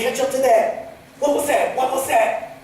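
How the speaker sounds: high, startled call to the driver. Retold or imitated. Telling how he startled the bus driver.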